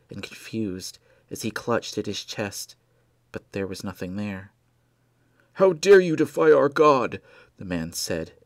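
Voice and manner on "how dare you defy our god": loud, high, outraged cultist roar; furious shout. Acted. Cultist to Blair, shouting in fury at the betrayal. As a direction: thunder it like a fanatic scolding heresy.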